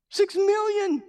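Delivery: sudden high astonished cry; amazed exclamation. Real, not acted. Pastor marvels at the preacher's reach, astonished. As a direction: let the number stun you.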